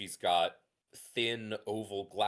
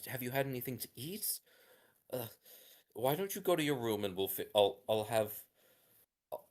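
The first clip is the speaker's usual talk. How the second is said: higher, fast, flustered and grateful; fussing mother; 4 semitones higher, faster than usual. Acted. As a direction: hurry the child off to bed while thanking. Mother fusses and thanks them.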